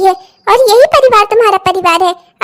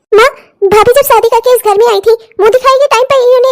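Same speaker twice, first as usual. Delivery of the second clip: tearful complaint; 3 dB louder than usual. Acted.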